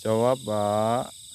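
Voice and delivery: loud, very slow command; loud, slow demand for a ghost to answer. Real, not acted. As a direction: make him answer, word by word.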